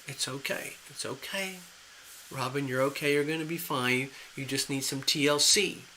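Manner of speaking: calm her down gently, like a frightened pet; reassuring. Pretend. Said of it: "So it's just like".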